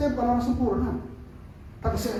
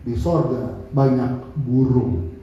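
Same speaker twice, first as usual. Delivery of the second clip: spoken slowly and low, as heard in the heart; slow, low inner voice; 9 semitones lower, much slower than usual. Retold or imitated. Preacher recalls the inner voice telling him what to say. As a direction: let it land slowly, like an inner prompting. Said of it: "hati saya begini, bilang sama dia".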